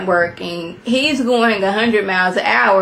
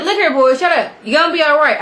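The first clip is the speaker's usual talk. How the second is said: raised, higher and louder mock yell at his son; daddy yelling; 6 semitones higher, 3 dB louder, faster than usual. Dad yelling at his panicking son, imitated raised voice. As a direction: bark it out like a dad taking charge. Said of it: "The daddy start yelling like".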